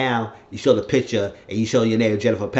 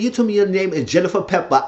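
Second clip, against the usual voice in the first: high, dramatic reveal; acted accusation; 9 semitones higher, 4 dB louder, faster than usual. Man exposing the false name she gave him, dramatic accusation. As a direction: land the revelation with raised pitch.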